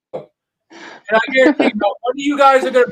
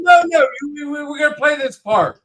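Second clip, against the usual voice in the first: raised, heated voice; shouting match; 5 semitones higher, faster than usual. Real, not acted. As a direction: yell it defiantly. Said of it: "Quit yelling".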